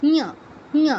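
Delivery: ঞ as one syllable 'nyuh', tongue on the palate; isolated palatal nasal ঞ; correct Sanskrit nya. Shown as a demonstration. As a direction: demonstrate ঞ without lip spreading or extra i. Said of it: "তাহলে এটা কি".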